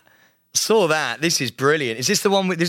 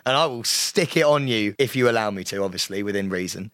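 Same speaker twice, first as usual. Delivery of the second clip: low, hushed chat-up voice; smooth-stud character; 8 semitones lower than usual. Acted. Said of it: "you'll be Studley Goodfuck".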